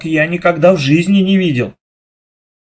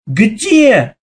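a single high, loud «Где?»; startled call; shouting in chorus; 7 semitones higher, 3 dB louder than usual. A narrator's reading. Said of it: "хором закричали". (громкий общий вопрос)

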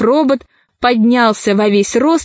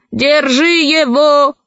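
shouted order; 4 semitones higher, slower than usual. Acted. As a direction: yell for help holding him. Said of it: "крикнул шеф".

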